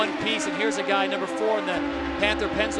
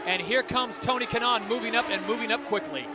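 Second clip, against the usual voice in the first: motorsport commentator. Acted. Live play-by-play of battle.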